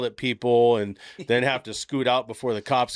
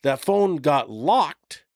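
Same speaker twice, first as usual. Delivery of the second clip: slow explaining; 4 semitones higher, much slower than usual. Retold or imitated. Kid explaining slowly to dad.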